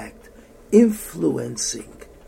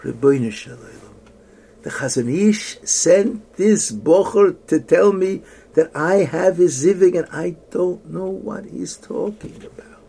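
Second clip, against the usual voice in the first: crying her heart out; 4 semitones higher, 7 dB louder than usual. Retold or imitated. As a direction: cry out to God in bewildered desperation. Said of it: "crying her heart out".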